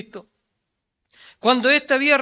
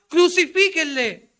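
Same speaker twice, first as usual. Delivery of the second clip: crowd shouting; 3 semitones higher, 6 dB louder than usual. Retold or imitated. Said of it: "le estaba gritando".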